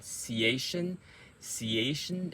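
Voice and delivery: ciation as one short unit; quick ending. Shown as a demonstration. Coach isolating the last part, quick ciation. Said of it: "at the end is quick".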